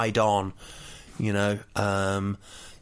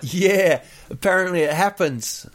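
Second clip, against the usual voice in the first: bored bathers; 7 semitones higher, 5 dB louder than usual. Retold or imitated. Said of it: "everyone was like".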